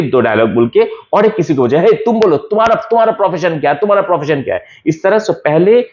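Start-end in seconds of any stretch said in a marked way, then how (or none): 1.8-4.6 mock scolding. Repeats Flavius pointing.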